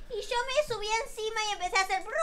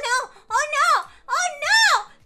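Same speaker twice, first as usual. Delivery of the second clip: climbing higher and louder no; rising wail; 8 semitones higher, 8 dB louder than usual. Acted. Girl watching the bike sink, climbing wail. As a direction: wail of dismay.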